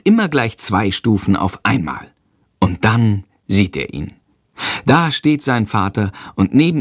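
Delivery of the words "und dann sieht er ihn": ordinary delivery, nothing marked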